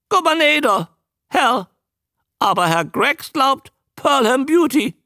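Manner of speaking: very high, loud squawky creature; loud, high, quick croak; croaking newt. A narrator's reading. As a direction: introduce yourself as an eager talking newt. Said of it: "krächzte er".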